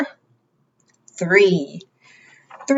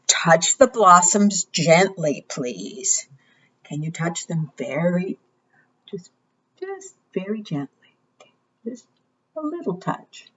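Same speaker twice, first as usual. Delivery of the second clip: gentle; 6 dB quieter than usual. Shown as a demonstration. Asking children to be gentle.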